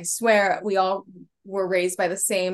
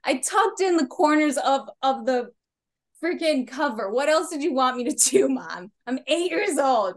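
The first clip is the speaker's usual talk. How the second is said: put-on pleading kid me; 5 semitones higher than usual. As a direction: argue your case like a fed-up eight-year-old. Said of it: "I was like".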